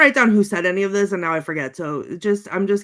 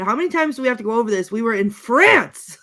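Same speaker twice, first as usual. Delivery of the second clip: exasperated quote; 2 semitones higher, 4 dB louder than usual. Retold or imitated. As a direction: imitate a fed-up complaint, rushed then stretched and louder. Acted exasperated movie quote.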